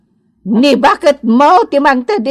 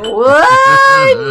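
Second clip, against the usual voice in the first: shout; 11 semitones higher than usual. Acted. Exclamation in drinking scene.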